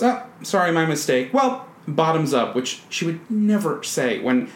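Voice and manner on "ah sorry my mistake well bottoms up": a hint of sly Dorothy, higher; quoting Dorothy. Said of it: "Dorothy goes".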